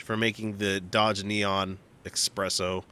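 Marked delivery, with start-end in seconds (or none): 2.0-2.8 "Espresso" drawn out as "Expresso"; mispronounced with X. Shown as a demonstration. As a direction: slowly say "Espresso" with a wrong X. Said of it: "there's not even an X".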